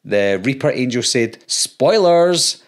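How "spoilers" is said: "Spoilers!" called out loud and high; mock outraged yell. Commenter furious about spoilers, mock yell. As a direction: shout it like a wronged fan. Angry commenter's exclamation read.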